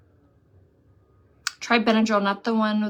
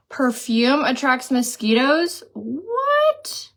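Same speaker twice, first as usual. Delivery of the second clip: gasping disbelief; 4 semitones higher, much slower than usual. Real, not acted. Reading surprising chat comment.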